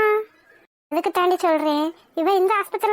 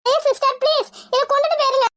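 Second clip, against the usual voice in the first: agitated, mildly raised plea; crying out; 3 semitones higher than usual. Acted. Patient telling nurse to take it away, crying out. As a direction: cry out to send the needle away. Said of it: "கத்தாதீங்க".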